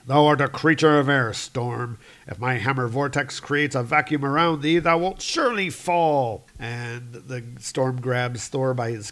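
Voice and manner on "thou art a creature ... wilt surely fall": declamatory archaic threat; heroic god's challenge. Acted. Hero warning the storm of his hammer vortex, declamatory.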